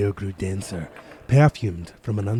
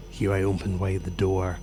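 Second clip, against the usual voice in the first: ordinary delivery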